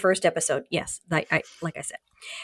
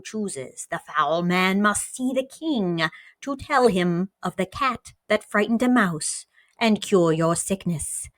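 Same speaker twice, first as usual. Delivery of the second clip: poem reading. Acted. Host reading Lucas's mysterious poem to cohost, solemn recital. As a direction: intone it like an old prophecy.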